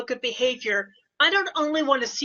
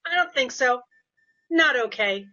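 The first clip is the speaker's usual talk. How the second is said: firmer voice. Retold or imitated. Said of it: "it's a different voice, and it's a little bit firmer".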